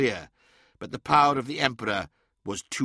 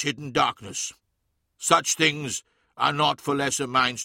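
commanding Emperor. Acted. Emperor continues his ruling.

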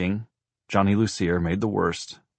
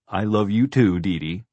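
louder, slightly raised, hearty woman's reply; hearty affection; 3 semitones higher, 6 dB louder than usual. A narrator's reading. Horse lady answers for her horse, hearty and fond. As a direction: answer fondly, leaning on "too".

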